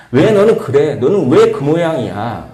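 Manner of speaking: a touch of harsh scolding; lightly acted reproach; mock reproach. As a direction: nag someone mildly. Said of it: "라는 언어 대신".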